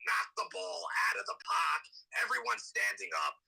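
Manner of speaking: soft, animated New York impression; hammed-up New York accent; thick New York accent. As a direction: talk like a die-hard New York local. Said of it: "Let's hear that thick New York accent".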